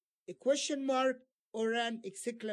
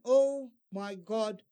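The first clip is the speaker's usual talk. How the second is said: mild exclamation; 5 dB louder, slower than usual. Shown as a demonstration. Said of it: "two exclamation marks here".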